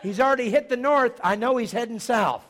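high, booming shout; loud holler. Retold or imitated. Preacher carries on his shouted window exchange, loud holler. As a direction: call it out at full volume.

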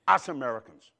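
Us Americans, said again in his own foreign accent. Shown as a demonstration. Pastor repeats the phrase to tease the congregation, in his accent. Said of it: "don't you like it when I say that with that accent?".

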